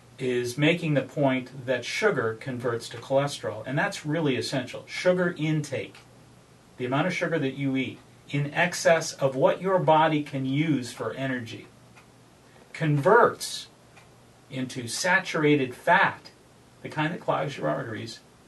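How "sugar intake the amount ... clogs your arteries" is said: slow, unhurried, measured, deliberate delivery. Speaker addressing listeners, wanting them to really hear this point, said slowly. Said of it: "and I'm going to say it slowly".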